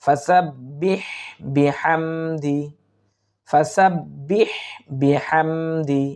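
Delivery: slow, stretched recitation with a doubled b; slow recitation drill. Shown as a demonstration. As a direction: chant it slowly for practice. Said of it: "আমরা বারবার একটু মস্ক করার চেষ্টা করব".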